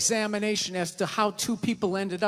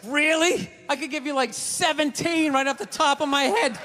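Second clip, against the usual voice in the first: sarcastic; 4 semitones higher than usual. Retold or imitated. His mocking reply.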